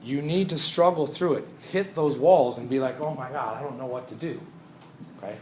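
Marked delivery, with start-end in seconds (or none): 3.0-4.4 imitated struggling student. Voicing a struggling student's worry.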